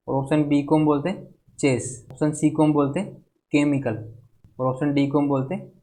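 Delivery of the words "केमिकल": केमिकल with CH said as a hard K. Shown as a demonstration. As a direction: start केमिकल on a K sound. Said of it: "सी एच क का sound दे रहे हैं".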